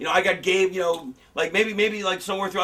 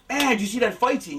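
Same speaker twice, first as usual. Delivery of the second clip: a little higher, excited moviegoer; genuinely amazed; 4 semitones higher than usual. Retold or imitated. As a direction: share the thrill of a great fight scene. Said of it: "you're like".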